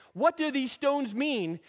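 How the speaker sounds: high, loud, slow question; children's wondering question. Acted. Children asking their elders about stones, high and insistent.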